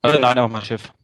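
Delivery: glitchy robotic Skype voice; choppy robotic connection dropout. Real, not acted. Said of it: "jetzt ist die Roboterstimme wieder da".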